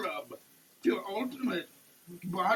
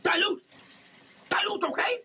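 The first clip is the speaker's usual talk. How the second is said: high, loud exaggerated order; mock command shout; 13 semitones higher, 3 dB louder, faster than usual. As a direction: bark the instruction as a joke.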